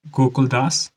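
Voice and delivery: one word at a time, long pauses; deliberate note-taking pace; speaking slowly. Shown as a demonstration. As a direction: dictate slowly so students can write. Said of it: "धीरे से बोल रहा हूँ".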